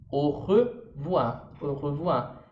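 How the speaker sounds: very slow au revoir, au said as O; French au revoir. Shown as a demonstration. Teacher modelling au revoir as her example, very slow. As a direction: au revoir drawn out with a throaty R. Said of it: "a língua vai tá lá no dente".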